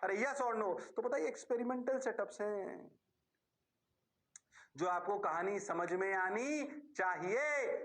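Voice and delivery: usual speaking voice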